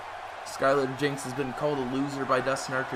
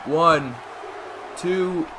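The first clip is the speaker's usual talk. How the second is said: excited count; 3 semitones higher, 3 dB louder than usual. Real, not acted. Counting the pin.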